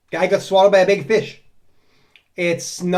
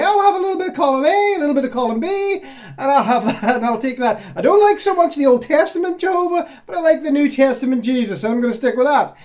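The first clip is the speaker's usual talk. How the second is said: high, quick, breezy mock voice of a cafeteria Christian; sing-song it like ordering off a menu, half laughing; mocking a pick-and-choose Christian; 6 semitones higher than usual. Mocking Christians who pick and choose, in a high breezy voice. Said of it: "you can just pick and choose and say".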